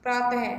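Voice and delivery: प्रातः with a breathy "ah" release at the end; visarga sound. Shown as a demonstration. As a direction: let प्रातः end in a short aspirated ह-like sound. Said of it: "हमने उसको बोला अ". (प्रातः में विसर्ग की हल्की "ह" ध्वनि)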